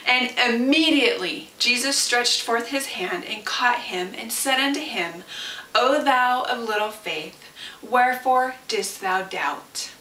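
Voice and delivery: measured Bible reading; scripture reading. Acted. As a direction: read the passage with reverence. Reads scripture aloud.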